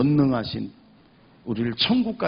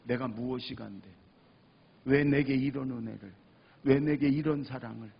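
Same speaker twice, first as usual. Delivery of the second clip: humbled gratitude; 2 semitones lower than usual. Retold or imitated. Forgiven sinner praying to God, humbled gratitude. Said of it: "똑같은 와임인데 전혀 달라".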